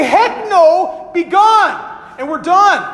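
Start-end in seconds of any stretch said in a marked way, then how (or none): 0.0-1.8 higher, lightly mock dismissal; mock refusal. Wronged person refusing the apology, light mock scorn. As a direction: brush them off in mock scorn. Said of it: "they can say".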